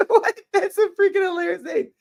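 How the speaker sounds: high-pitched laughing disbelief; cracking up at the joke. Real, not acted. Streamer laughing at a viewer's brick fingers comment.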